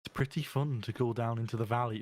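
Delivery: missed stab at a Welsh accent; attempted Welsh accent. Shown as a demonstration. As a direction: try a Welsh accent, not quite landing it. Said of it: "No, I completely missed it".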